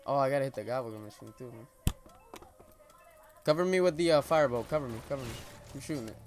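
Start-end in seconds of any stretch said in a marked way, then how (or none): 3.4-5.3 loud, pressing call for cover; urgent callout. Real, not acted. Asking cover in fight.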